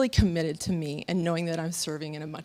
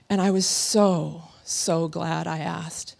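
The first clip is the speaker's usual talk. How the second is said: slow sincere; 3 semitones lower, slower than usual. Real, not acted. Slowed heartfelt recollection.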